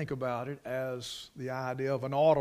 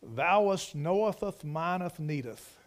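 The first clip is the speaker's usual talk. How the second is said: mock pious prayer; 2 semitones higher than usual. Preacher imagining sinking Peter's wordy prayer, mock pious. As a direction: parody a long-winded formal prayer, lingering on each phrase. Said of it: "And he said".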